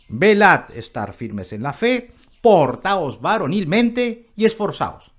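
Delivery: emphatic order, building at the end; commanding tone. Acted. Preacher showing the apostle's first tone of voice, commanding. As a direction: demonstrate a firm apostle's command. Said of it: "Primero su tono de voz es".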